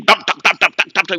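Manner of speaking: rapid tapping stick sounds; imitated beating blows. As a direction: mimic quick, repeated stick blows. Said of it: "started beating him".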